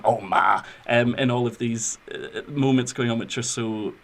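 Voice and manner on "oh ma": lightly voiced, lower "Oh, ma"; imitated son's groan. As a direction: drop lower for a son addressing his mother. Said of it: "always kind of got the same".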